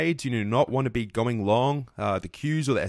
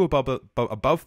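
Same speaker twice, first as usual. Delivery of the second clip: stumbling over a repeated word; stuttering; 3 dB louder than usual. Real, not acted. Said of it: "I'm stuttering a little bit".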